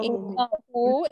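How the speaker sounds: "Innahu" stretched out with a rising end; drawn-out model. Shown as a demonstration. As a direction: draw out "Innahu" for the class. Teacher models the form again.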